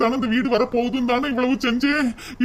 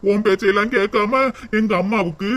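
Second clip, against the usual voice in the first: ordinary delivery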